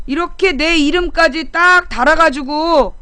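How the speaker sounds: usual speaking voice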